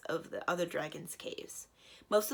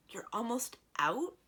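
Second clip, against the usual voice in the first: surprised; 5 semitones higher than usual. Acted. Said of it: "Simrine said in surprise".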